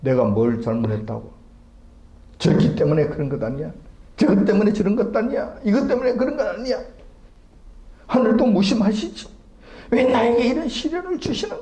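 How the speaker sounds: rising, high-pitched, indignant voice. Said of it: "책임 전가하는데 급급한 모습".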